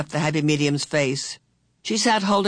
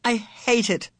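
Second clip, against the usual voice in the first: passionate cry; 7 semitones higher than usual. A narrator's reading. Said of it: "cried passionately".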